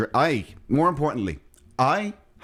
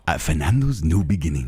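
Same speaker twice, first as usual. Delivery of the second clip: put-on playful Latino accent announcer; 8 semitones lower than usual. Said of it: "you do some Latino accent".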